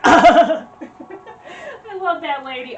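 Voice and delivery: high, loud wobbling noise through laughter; Mad TV lady impression. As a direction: imitate a comedy-show lady, laughing. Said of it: "I sound like that lady on Mad T V".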